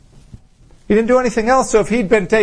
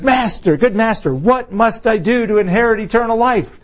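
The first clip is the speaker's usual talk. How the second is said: higher-pitched, urgent appeal; eager young ruler; 5 semitones higher than usual. Retold or imitated. Rich ruler running up to Jesus, eagerly. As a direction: imitate an eager seeker calling his master. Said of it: "And Jesus is getting out of town".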